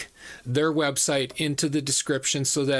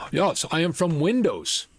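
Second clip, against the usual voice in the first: lightly put-on Indian accent; imitated Indian accent. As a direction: scam caller with a rough Indian accent. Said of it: "It was an Indian accent".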